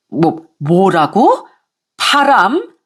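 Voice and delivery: can't believe what she hears; shocked in-law; stunned mother-in-law. Acted.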